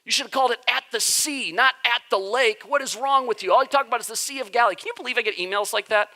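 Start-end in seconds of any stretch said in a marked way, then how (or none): 0.0-4.8 high-pitched mock-indignant complainer; lightly hammed-up scolding reader; angry emailer. Pretend emailer scolding the pastor, mock indignant. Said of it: "they're like".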